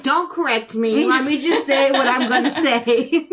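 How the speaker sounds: slow, lightly voiced cross little kid; mock a child firmly refusing correction; indignant child. Imagining the indignant child's retort.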